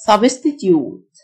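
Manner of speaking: slow British "substitute"; drawn-out British take on substitute; British pronunciation. Shown as a demonstration. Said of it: "وده النطق البريتش".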